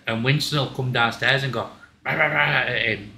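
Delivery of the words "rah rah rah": quick mock barking; rah-rah dog noise; imitated dog yapping.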